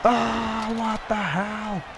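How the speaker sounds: sudden shocked cry; surprised shout. Real, not acted. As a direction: shout out in alarm.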